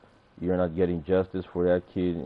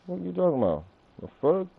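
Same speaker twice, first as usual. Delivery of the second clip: high mocking voice; 9 semitones higher, faster than usual. Mock voice continues.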